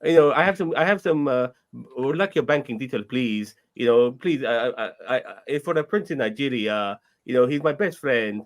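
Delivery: put-on light Nigerian scam-caller accent. Asked for a Nigerian accent, a caller asks for banking details in a light Nigerian accent. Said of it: "can any of you do a Nigerian accent".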